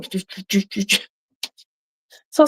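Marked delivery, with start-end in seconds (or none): 0.0-1.0 imitated rapid beeping. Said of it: "she was going".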